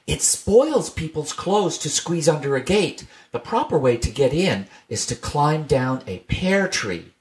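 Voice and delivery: put-on a young bunny explaining knowingly; Benjamin speaking. Benjamin quoted in story.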